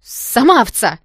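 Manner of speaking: loud, snappy retort; indignant snap back. Acted. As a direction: throw the insult right back. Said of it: "возмутилась я и спохватилась". (громко, дерзко огрызаясь)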